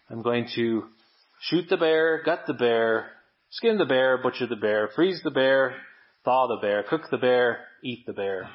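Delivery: imitated absentminded chanting of a list, alternating up and down; absentminded self-talk. Preacher retelling his solo car ramble about the bear, mock absentminded self-talk. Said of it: "started muttering to myself, absentmindedly saying something like".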